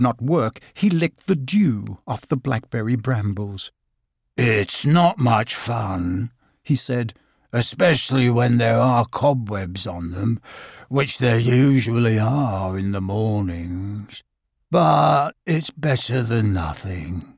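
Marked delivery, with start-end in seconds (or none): 4.4-6.3 low, slow, mournful Eeyore drawl; gloomy donkey. Acted. 7.5-17.3 low, slow, mournful Eeyore drawl; gloomy donkey. Acted. Eeyore voice continues.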